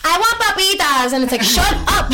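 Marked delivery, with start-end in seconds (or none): 0.0-1.1 high-pitched imitation of demanding kids; clamoring nephews. Voicing her nephews demanding fries. 1.4-2.1 high-pitched exasperated shushing, half laughing; mock scolding. Retold hushing of the nephews.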